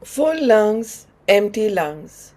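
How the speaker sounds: unhurried cue, a pause between phrases; slow breath count. Real, not acted. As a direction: pace a long breath in, then out. Cues slow breaths, before speeding up.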